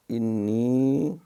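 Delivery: اللہم drawn out very slowly, chanted; recitation. Shown as a demonstration. Teacher recites prayer slowly for students. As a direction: intone اللہم in long recitation. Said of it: "ان کو پہلے ہم ایک دفعہ پڑھیں گے".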